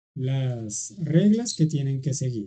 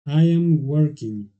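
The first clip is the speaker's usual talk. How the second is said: slow English model; slower than usual. Shown as a demonstration. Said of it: "para decir yo estoy trabajando".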